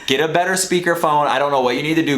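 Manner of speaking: re-enacted irritated rant; retold exasperation. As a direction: tell off the operator in mock outrage. Retold row with the dispatcher.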